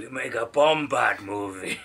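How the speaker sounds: Gungan voice. Acted. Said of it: "Big Boss Nass".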